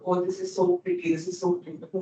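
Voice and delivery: high, soft cooing admiration; mock gushing. Imitating followers lost in the influencer's vision, mock gushing. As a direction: coo it in a high, softened mock swoon.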